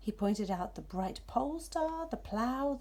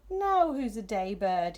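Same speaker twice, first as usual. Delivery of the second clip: shouted; 6 dB louder than usual. Acted. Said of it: "he shouted at the darkness".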